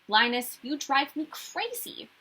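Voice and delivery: a half-hearted shout at her brother; mild mock shout. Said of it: "Lucy shouts at her little brother".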